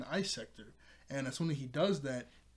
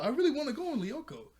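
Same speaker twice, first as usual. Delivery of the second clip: high-pitched, louder mock cheerleader whine; imitating Sissy; 12 semitones higher, 5 dB louder than usual. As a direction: mimic an eager cheerleader, pitched way up. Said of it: "It's the way she said that was so funny".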